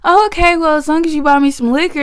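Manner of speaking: grandma voice. Retold or imitated. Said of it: "She was like".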